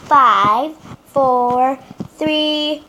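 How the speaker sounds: counting down loudly; loud countdown. Acted. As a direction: shout out a countdown. Countdown to subscribe.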